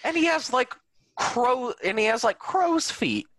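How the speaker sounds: high, laughing through it; amused, voice going up high; laughing disbelief. Real, not acted. Mocking actor's age, laughing.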